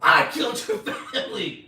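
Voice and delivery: very loud, high mock wail; hammed-up shouted confession. Retelling killer confessing to Frenchie, hammed-up shout. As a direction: yell it as an over-the-top dramatic reveal.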